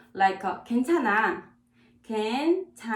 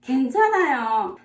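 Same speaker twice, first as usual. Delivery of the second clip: brisk loud reply; 2 semitones higher, 5 dB louder, much faster than usual. Acted. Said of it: "someone says 감사합니다".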